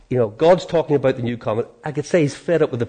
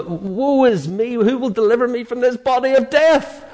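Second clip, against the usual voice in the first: despairing Paul; 9 semitones higher than usual. Retold or imitated. Preacher voicing Paul desperate under the law, anguished. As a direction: voice Paul's despair, rising to a plea. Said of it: "Paul says in Romans seven".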